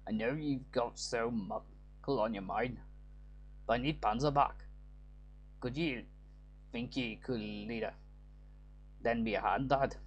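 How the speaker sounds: light Scottish-Irish lilt, read like a game line; a hint of a Scottish brogue, half Irish; Scottish accent. Father voicing his harsh streak to the lad, light Scottish accent. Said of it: "doing a Scottish accent or an Irish".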